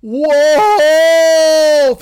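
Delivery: full-throated shout at the top of his lungs; desperate alarm shout, lungs bursting; yelling wolf. Acted. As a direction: scream it with everything you have. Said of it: "He fucking yells it with all he has".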